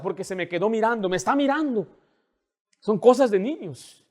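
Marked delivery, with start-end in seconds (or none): 0.0-1.9 mock whiny child. Voicing crying daughter.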